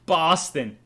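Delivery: a broad Boston "Boston", loud, no r; Boston accent. Shown as a demonstration. A host shows off his Boston accent to viewers. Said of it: "That's my accent".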